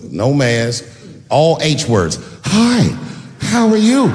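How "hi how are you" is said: a loud, higher mock greeting from a pushy stranger; loud pushy woman. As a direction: holler the greeting like an overeager fan. Woman barges up to table.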